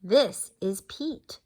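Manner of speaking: slow, proud presenting; a hint of a proud mother duck; proud Mom Duck. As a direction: present the baby slowly and proudly. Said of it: "Mom Duck tells the animals".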